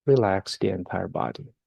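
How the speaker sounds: guided meditation. Real, not acted. Teacher leading listeners to relax the entire body, guided meditation. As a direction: ease them down phrase by phrase, unhurried.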